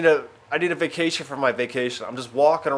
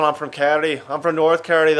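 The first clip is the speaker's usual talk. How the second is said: local Irish comic; 2 semitones higher, 5 dB louder than usual. Retold or imitated. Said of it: "You just get this comedian".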